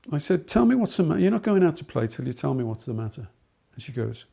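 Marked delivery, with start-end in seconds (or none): 0.5-3.3 firm insistence. Retold or imitated. Teacher insists pupil explain.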